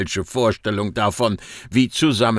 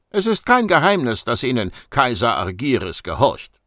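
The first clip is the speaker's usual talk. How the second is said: raised, sharper voice on the first words; louder; 3 semitones higher than usual. Acted. Agent raising her voice at the administrator, louder. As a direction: get louder as she presses him. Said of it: "Leanne wurde lauter".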